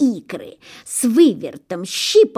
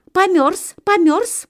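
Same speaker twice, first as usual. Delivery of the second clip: high, small gosling voices; tiny high gosling chatter; goslings' voice; 11 semitones higher, 3 dB louder than usual. A narrator's reading. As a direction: chirp like little goslings.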